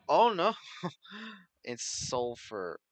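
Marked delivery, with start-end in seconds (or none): 0.1-0.5 a loud, high Oh no of dread; sudden loud Oh no; loud dismay. Real, not acted. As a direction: yelp it as bad news hits. Dismay at needing the nether.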